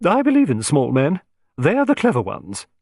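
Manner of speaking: bold, emphatic lady's declaration; Lady Astwell exclaims to the small detective; exclaiming. Acted. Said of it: "she exclaimed".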